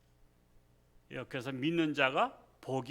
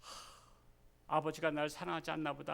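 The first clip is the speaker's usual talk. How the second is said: dejected son; 5 dB quieter than usual. Retold or imitated. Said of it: "둘째 아들이 시험 들었어".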